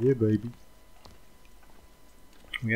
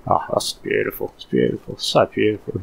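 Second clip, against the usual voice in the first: gushing Aussie lady; 4 dB louder than usual. Retold or imitated. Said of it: "she just could not stop saying it".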